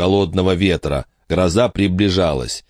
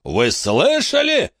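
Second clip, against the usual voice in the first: booming cry; slower than usual. A narrator's reading. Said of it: "громогласно возопил мистер Уикс".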